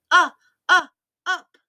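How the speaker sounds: put-on high whiny baby cry. Teacher imitating a baby who wants to be picked up. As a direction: mimic a fussing baby reaching up. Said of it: "Babies are very good at the sound, 'cause they say".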